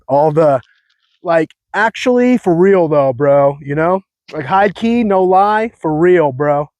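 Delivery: laid-back California bro slang; surfer-bro drawl, California style. Shown as a demonstration. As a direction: lay on the Cali bro talk. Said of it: "stupid way that I speak".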